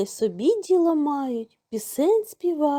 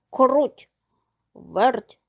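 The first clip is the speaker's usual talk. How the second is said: rooster calling two friends by name; 4 dB louder than usual. A narrator's reading. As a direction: call out each name separately. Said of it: "став гукати півник".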